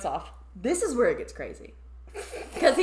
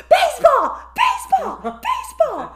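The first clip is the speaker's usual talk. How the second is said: loud, high repeated yell; a fan screaming over the crowd; 9 dB louder than usual. Retold or imitated. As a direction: shout it over everyone. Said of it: "starts screaming over me".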